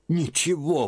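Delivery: high scornful exclamation; exclaimed. A narrator's reading. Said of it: "воскликнула Марфа Тимофеевна". (тётка восклицает с укором, высоко)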